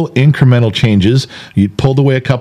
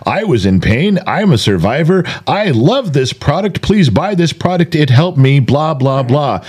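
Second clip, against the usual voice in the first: lightly voiced, higher mock sales pitch; mock infomercial testimonial; 3 semitones higher than usual. Husband mocking an infomercial pitch, lightly hammed-up. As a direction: parody a product testimonial, half-hearted. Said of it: "this isn't an infomercial".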